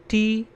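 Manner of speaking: टी said on its own as a full syllable; isolated syllable. Shown as a demonstration. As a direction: set टी apart as the middle syllable. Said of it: "second syllable".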